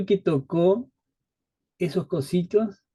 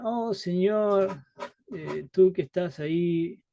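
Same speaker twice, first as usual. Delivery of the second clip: mock flowery prayer; slower than usual. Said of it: "no dices".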